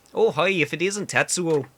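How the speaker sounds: chirpy greeting in a bad Canadian accent; hammy Canadian accent. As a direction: put on an awkward Canadian accent. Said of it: "weird Canadian Japanese man".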